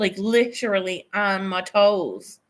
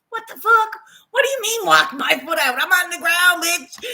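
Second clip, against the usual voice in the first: higher, louder, quick exasperated protest; indignant outburst; 7 semitones higher, 5 dB louder than usual. Retold or imitated. Answering the yoga teacher on screen, loud and indignant. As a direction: fire back, fed up with the instruction.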